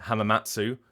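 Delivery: Hamamatsu with a clear "tsoo" at the end; full final oo. Shown as a demonstration. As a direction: say all of "Hamamatsu", last vowel sounded. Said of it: "you have people pronouncing it".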